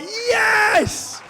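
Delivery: high, loud shout of joy; overjoyed cry at the news; triumphant yell. Retold or imitated. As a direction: punch the air with it. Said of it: "I'm like".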